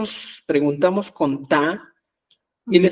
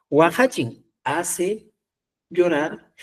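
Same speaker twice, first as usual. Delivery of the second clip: slow demo example; slower than usual. Shown as a demonstration. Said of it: "es el verbo hacer".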